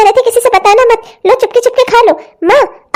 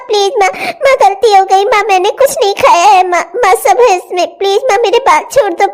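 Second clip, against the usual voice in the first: begging through sobs; crying girl begging for mercy; tearful pleading. Acted. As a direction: plead with her mother while crying. Girl pleads, hair pulled.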